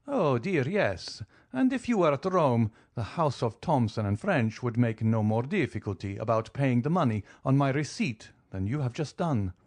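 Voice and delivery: lightly voiced count, cool and amused; an easy, teasing nobleman calmly pressing his claim. Count calmly teases the banker over his millions, lightly voiced.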